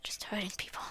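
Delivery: whispered inner thought; unvoiced, frightened inner voice. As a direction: breathe it to yourself, scared. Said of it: "I'm scared stiff".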